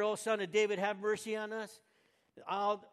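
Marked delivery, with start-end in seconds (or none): 0.0-1.8 loud high pleading shout; a preacher yelling the blind men's cry; yelled plea. Retold or imitated. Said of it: "they yelled it out".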